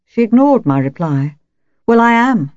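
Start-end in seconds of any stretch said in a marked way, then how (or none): 1.9-2.5 loud, high-pitched declaration; declaring. A narrator's reading. Wife insisting to a friend she is weak, forceful declaration. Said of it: "she declared".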